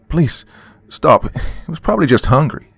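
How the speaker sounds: high, loud pleading scream. Acted. Dawn screams at the shooter to spare the wolf, high and loud. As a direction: scream at the man to stop shooting. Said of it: "screamed Dawn".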